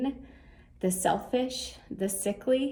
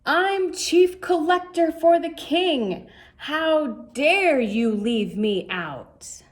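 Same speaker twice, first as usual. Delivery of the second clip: raised, louder, offended demand; a small man insisting on his rank, slowing at the end; huffy official outburst; indignant shout; 5 semitones higher, 4 dB louder than usual. Acted. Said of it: "he began to shout".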